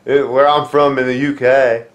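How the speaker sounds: terrible attempt at a British accent; stumbling, badly faked British; botched British wrestler impression; British Bulldog. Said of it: "one of the worst British accents".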